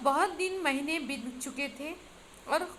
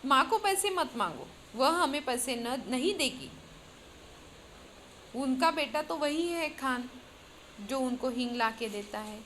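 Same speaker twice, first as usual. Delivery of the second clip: serious tone. Acted. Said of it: "आठ साल की लड़की ने बोला".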